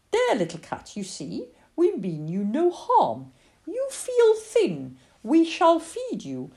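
put-on slow, lilting little-girl nun; child playing nun. Girl playing nun to a stray cat, gently solemn. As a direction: solemnly welcome a stray, drawing out the words.

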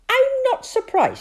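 put-on high, breathy child's voice; a small girl's knowing whisper; little girl whisper.

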